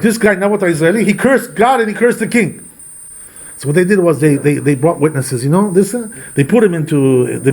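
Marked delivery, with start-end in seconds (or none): 0.0-2.6 higher-pitched mock proclamation; public announcement. Accuser announcing a man's crime before everybody, mock proclamation. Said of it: "he announces like this".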